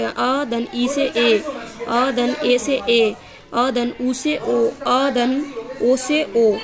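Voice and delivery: each vowel pair drawn out slowly for students; slow vowel demo. Shown as a demonstration. Teacher slowly showing students how vowels combine. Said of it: "ये अलग अलग स्वर से मिलके".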